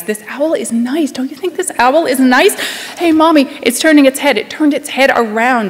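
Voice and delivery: put-on high, loud and chattering, a three-year-old thrilled by an owl; excited little girl. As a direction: bubble over like a toddler seeing an owl. Excited child voice monologue.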